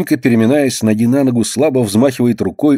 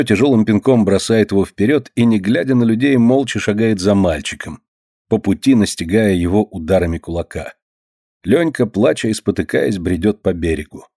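ordinary delivery, nothing marked

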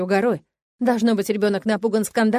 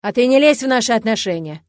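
loud, threatening rebuke; грозно; menacing; 2 semitones higher, 7 dB louder than usual. A narrator's reading. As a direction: warn him off with menace. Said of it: "грозно проговорил отец".

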